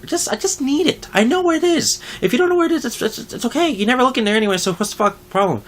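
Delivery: high, overly polite pleading; mock polite plea; fake polite. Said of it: "I tried being polite with her".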